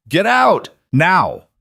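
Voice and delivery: a desperate, high, loud yell; shouting. A narrator's reading. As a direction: yell it across the corral.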